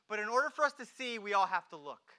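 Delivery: quick, forceful appeal; emphatic preaching. Real, not acted. Preacher urges congregation to look, emphatic. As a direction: drive the point home briskly. Preacher's climax, then quiet repeat.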